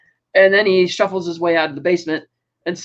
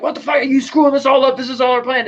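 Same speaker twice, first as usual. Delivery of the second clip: higher, sharp mock outrage; a hint of Penguin scolding the kid; imitating angry Penguin; 6 semitones higher than usual. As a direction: snap at the kid in a put-on voice. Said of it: "Penguin's like".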